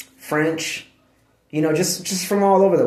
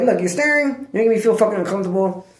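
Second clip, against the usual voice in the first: high mock complaint; 6 semitones higher than usual. Scolding dog for staring.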